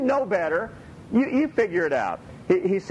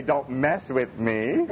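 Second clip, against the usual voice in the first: slow, laughing through the words; wife giggling as she refuses to say it; laughing refusal; 5 semitones lower, much slower than usual. Retold or imitated. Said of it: "and she goes".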